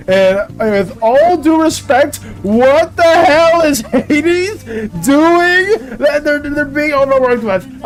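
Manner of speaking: slow, drawn-out what the hell; a fed-up demand stretched long; exasperated rant. Real, not acted. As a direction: spell out every word in disbelief. Exasperated rant about Hades.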